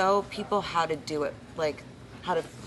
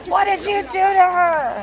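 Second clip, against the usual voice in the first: mock fan outrage; 8 semitones higher, 7 dB louder than usual. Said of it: "Your fans are gonna be like".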